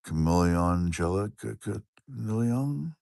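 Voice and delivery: put-on slow, deliberate "Camille Angelica Camille Young"; reading the viewer's full name slowly; slow careful reading. Shown as a demonstration. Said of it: "I think I just said it".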